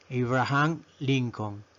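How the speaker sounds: Abraham Lincoln as "AY-bra-han LIN-con"; Abraham Lincoln, slow and syllable by syllable; English name pronunciation. Shown as a demonstration. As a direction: slowly model Abraham Lincoln, starting "ay". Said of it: "la pronunciamos".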